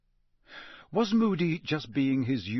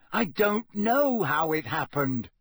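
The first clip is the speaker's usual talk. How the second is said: insistent; 4 semitones higher, 3 dB louder than usual. Acted. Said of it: "he said over and over again".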